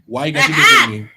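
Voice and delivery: high, loud whiny complaint; mock indignant whine. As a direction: squeal it out indignantly. Acting out the guy's complaint.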